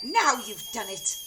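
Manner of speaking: loud, high accusation; crying out. A narrator's reading. Wife crying out at her husband. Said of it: "cried Missus Cranky".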